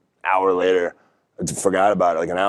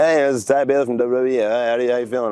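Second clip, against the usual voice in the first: higher, bright-voiced imitation of the phone caller; chipper WWE caller; 5 semitones higher, faster than usual. Recruiter calling an indie wrestler out of the blue, chipper and higher. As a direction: play the upbeat talent scout on the phone. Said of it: "he was like".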